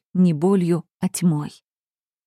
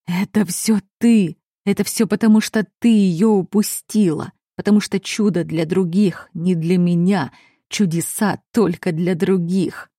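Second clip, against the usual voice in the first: grieving accusation. Acted. Grieving father blames the heroine.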